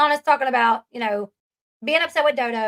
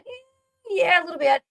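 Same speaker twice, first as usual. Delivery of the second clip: high, hesitant hum into the answer; pitched-up, hedging imitation; acted reluctant admission; 5 semitones higher than usual. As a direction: mimic someone awkwardly softening bad news. Acting out a hesitant, awkward answer.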